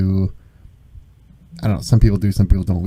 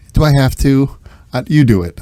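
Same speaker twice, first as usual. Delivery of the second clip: put-on back-talking child, higher and louder; Atticus; 4 semitones higher, 4 dB louder than usual. Father imitating child told to pick up, back-talk. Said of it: "then the talk back when I'll say".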